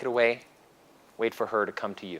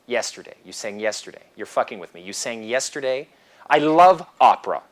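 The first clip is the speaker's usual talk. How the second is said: acted excited flirting; 6 dB louder than usual. Role-play of a pickup dialogue.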